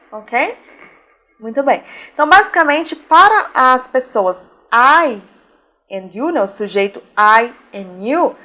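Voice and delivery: normal talking voice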